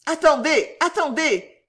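high, loud plea to wait; panicked cry. A narrator's reading. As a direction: cry out like a nervous skater. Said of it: "cria monsieur Winkle, qui tremblait violemment".

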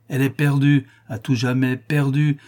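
sanctimonious indignation; righteous denunciation. Acted. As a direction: condemn her before a witness. Master denounces servant to priest.

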